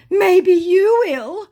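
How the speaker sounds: high, slow put-on scammer voice; mock scammer voice. Scammer hinting at money, high slow mock voice. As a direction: drag it out sweetly. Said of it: "scammer's reply quoted".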